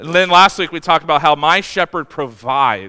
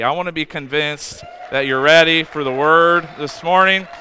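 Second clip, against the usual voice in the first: rally the room, a bit louder; louder, rousing call. Shown as a demonstration. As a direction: push it out to the congregation, building.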